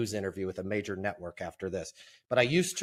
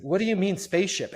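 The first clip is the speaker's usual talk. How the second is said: puzzled client; 8 semitones higher, 5 dB louder than usual. Retold or imitated. Client puzzled by spaceship question.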